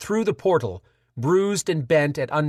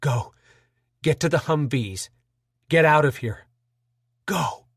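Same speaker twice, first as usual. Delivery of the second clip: gasped. Acted. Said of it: "Carl gasped".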